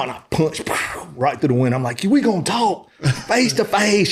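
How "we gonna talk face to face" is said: slow, high, forceful mock demand; retold angry demand. Demanding his wife get out of the car, slow retold anger. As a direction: spell out each word like a threat. Acted road rage quarrel.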